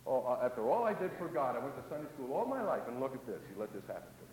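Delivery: mock the self-pitying believer; self-pitying whine. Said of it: "he's not just".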